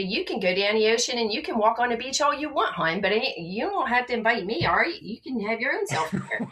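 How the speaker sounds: lightly voiced Baltimore hon talk; a hint of a Baltimore accent, breezy. A light Baltimore accent teasing the listeners. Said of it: "talk real Balmerese".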